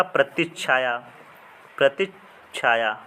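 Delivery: प्रतिच्छाया said slowly, the double च्छ clearly held; careful spelling demo. Shown as a demonstration. Teacher to students, showing correct spelling, slow careful say. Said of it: "तो इसका क्या होगा?".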